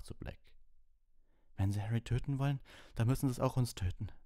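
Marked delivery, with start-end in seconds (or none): 1.6-4.1 high, loud defiant voice; grimly. Acted. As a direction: stand up to him grimly. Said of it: "sagte er grimmig".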